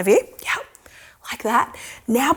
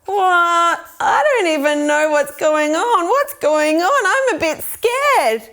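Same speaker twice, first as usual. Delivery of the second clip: mildly bewildered, a touch scared; storybook puzzlement; acted confusion; slower than usual. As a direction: play lost and unsure for children. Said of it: "really confused and go".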